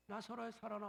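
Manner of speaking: softly spoken call to Lazarus; quiet call. Shown as a demonstration. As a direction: murmur it gently. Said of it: "조용하게".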